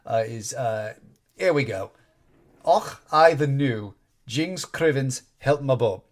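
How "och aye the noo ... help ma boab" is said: slow, light Scottish brogue; accidental Scottish accent. Acted. Podcaster quoting Wisdom mocking Moira, in a Scottish accent. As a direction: slip into a mild Scottish accent. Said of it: "Okay, there was an accent there".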